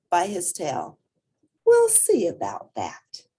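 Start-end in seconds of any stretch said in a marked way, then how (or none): 1.6-3.3 high, stubborn little voice; defiant child; determined. A narrator's reading. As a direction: refuse to be told no. Portly's new plan.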